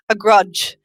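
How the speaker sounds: put-on a playful stab at a South African accent; joking South African accent, not quite right; mock South African accent. Host jokes to co-host about South African pronunciation, mock South African accent. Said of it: "sounds to me like the South African pronunciation".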